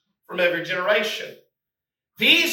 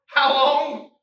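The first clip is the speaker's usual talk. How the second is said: higher, louder pleading How long; pleading cry; 6 semitones higher, 5 dB louder than usual. Acted. Preacher voicing the listener crying to God, loud pleading. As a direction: press God for an answer. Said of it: "Have you ever asked that question before?".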